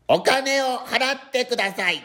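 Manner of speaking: high, slow automated announcement voice; machine voice. Retold or imitated. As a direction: imitate a love hotel payment machine. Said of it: "声っていうのをやらせていただきたいと思います".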